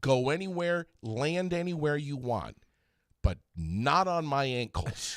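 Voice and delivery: stretched-out, emphatic pleading with the flies; mock-exasperated, slow and insistent; exasperated plea. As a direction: lay down the law, drawing out each phrase.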